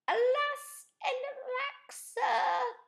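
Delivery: put-on a nervous old tinkerer lamenting; fretful old inventor. Amos speaks, high voice.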